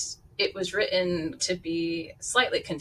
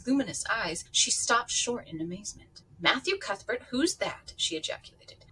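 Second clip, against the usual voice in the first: lively read-aloud with character voices; audiobook-style storytelling; story narration; 3 semitones higher than usual. A narrator's reading. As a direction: read the novel to listeners, voicing each figure. Reads novel aloud with voices.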